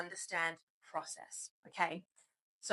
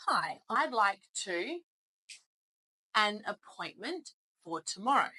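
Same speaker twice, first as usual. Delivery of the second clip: gap left in sentence. Shown as a demonstration. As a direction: leave a pause where the word goes. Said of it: "what word would fit here".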